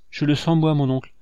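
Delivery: put-on a boy's heartfelt confession; passionate candor. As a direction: pour it out to the uncle with passion. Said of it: "avec une candeur passionnée".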